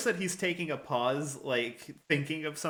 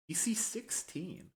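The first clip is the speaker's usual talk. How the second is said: whisper; 5 semitones higher, 7 dB quieter, slower than usual. Real, not acted. Reading dice result quietly.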